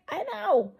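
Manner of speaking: bright, loud, high "I know"; loud high retort. Retold or imitated. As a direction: fire it back loud and high. Retorts to kid's comment.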